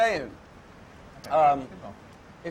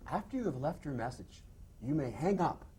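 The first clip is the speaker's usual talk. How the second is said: imitating an electronic voicemail recording; lightly voiced answering machine announcement; automated phone message; 7 dB quieter than usual. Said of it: "the electronic ones at businesses".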